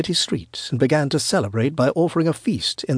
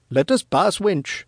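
higher-pitched, impatient demand; 5 semitones higher than usual. Acted. Gaspar demands the old woman let them pass, demanding. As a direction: order her out of your way. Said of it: "Gaspar demanded".

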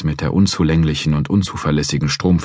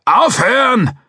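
stern order; 5 dB louder, slower than usual. Acted. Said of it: "forderte McCracken ihn erneut auf".

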